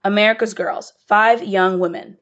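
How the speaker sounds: announcing the play's title and cast, measured; drama title announcement. A narrator's reading. Host introducing the play to the audience, announcing.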